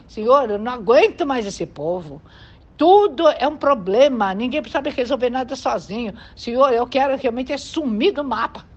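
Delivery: acting out a leader's weary complaint in prayer; exasperated prayer. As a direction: mock-desperate appeal to the Lord. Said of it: "Quanta gente já deve ter orado desse jeito".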